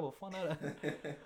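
slow, drawn-out shocked "vad fan är det"; mock shock. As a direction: act shocked at waking up with a beard. Shocked at own voice change.

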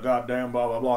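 lightly voiced country regulars; imitated redneck men. Morning regulars before work, lightly imitated redneck voice. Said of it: "would all talk like that".

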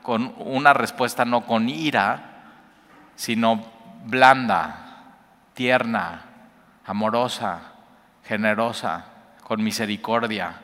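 cada vez más suave y pausado; suave y amorosa. Shown as a demonstration. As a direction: habla con ternura, bajando la voz. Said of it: "baja más la voz y habla más suave". (respuesta blanda, tierna y serena)

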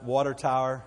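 "tower" said Texan, sounding like "tire"; Texas-accented water tower. Shown as a demonstration. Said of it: "It's all the same word".

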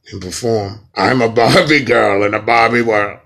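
loud mock secret-society boss; booming, absurdly serious command; Illuminati voice. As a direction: proclaim the order in a hammed-up boss voice. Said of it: "Okay, Illuminati voice".

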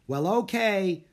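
high, loud, grudging okay; shouted agreement. A narrator's reading. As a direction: shout back in reply. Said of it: "he shouted".

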